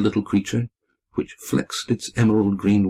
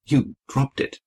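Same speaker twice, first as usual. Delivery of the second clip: higher-pitched sisterly taunt; derisive; 5 semitones higher than usual. A narrator's reading. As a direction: tease with mild derision. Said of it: "she said derisively".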